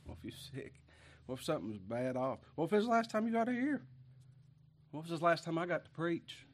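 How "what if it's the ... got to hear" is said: rising, fast, urgent preacher's question; impassioned plea. Real, not acted. Pastor pleading with his flock, higher and faster. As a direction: push the question up high and hard. Pleading with absent church members.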